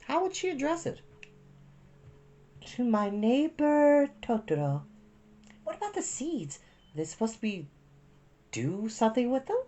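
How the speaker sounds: put-on high, small child's voice; a curious young girl asking; little girl voice. A narrator's reading.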